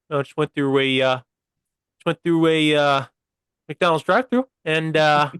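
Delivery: imitating friend Adam as a game of mimicry; Adam impression attempt. Retelling Adam's group-chat message about the AI drive-through in a put-on friend's voice. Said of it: "What does Adam sound like?".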